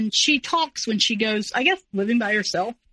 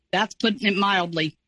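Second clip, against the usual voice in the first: somber; 3 semitones lower than usual. Retold or imitated. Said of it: "with just the most somber tone".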